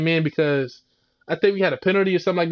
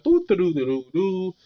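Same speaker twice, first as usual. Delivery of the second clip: singsong "doo doo doo", trailing off; dum-de-dum nonchalance, fading out; mock carefree doodling. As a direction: imitate someone idly looking around. Mimes quarterback looking around idly.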